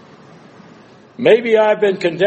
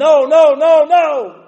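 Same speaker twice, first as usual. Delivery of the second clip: very high, loud primordial scream. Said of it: "I'm going to scream".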